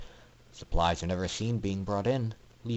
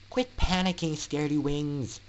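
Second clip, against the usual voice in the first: higher mock scold with a nickname; teasing Scootaloo; 6 semitones higher than usual. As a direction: needle him playfully. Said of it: "Scootaloo replied".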